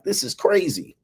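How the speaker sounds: high-pitched imitation of a woman; playful falsetto-like female quote; amazed woman. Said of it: "She was like".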